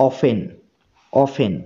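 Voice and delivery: অফেন said with no t sound; অফেন spoken clearly with the t dropped; silent t in often. Shown as a demonstration. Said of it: "এখানে টি এর উচ্চারণ হচ্ছে না".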